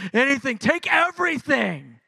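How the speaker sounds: high, loud, reckless cry; ecstatic offering. Retold or imitated. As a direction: throw it all out there. Worshipper carried away.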